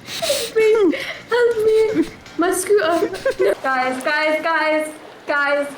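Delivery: laughing cries for help, high; panicked laughing yell; screaming while falling. Real, not acted. Falling off scooter, calling out.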